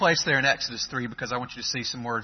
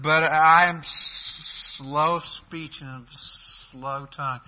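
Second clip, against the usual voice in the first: halting slow speech; slower than usual. Retold or imitated. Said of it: "I don't know if that's how he said it".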